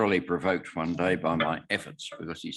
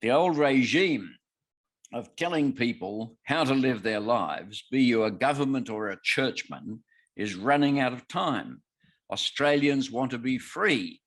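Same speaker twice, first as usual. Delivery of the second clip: politician's speech; 4 semitones higher than usual. Retold or imitated. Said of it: "politician many years ago said this".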